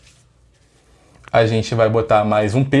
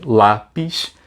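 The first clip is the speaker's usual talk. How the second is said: lápis in two parts, LÁ, then PIS; two distinct beats on lápis; split into syllables; 3 semitones lower than usual. Shown as a demonstration. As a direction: pull "lápis" apart at the syllable break. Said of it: "dessas duas que eu separei".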